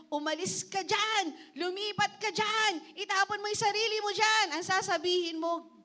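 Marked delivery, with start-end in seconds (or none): 0.1-4.5 mock shouted commands at a mountain; shouting at the mountain. Preacher mimics someone yelling at a mountain, mild mock shout. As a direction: yell it like you're ordering the mountain away. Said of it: "sinisigawan yung bundok".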